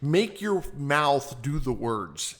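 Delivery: slowly spelling it out; slow, deliberate quote. Retold or imitated. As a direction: say it slowly, word by word. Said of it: "he says".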